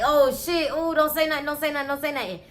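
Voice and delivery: mildly nervous pleading under the breath; a touch of acted dread; shook. Miss Vernita hoping Lamar says nothing, shook. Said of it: "Miss Vernita shook".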